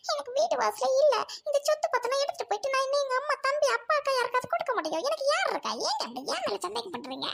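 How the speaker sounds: wounded, sobbing self-defence; hurt, pleading outburst; tearful protest. Acted. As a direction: protest innocence through sobs. Wife tearfully protests husband's suspicion.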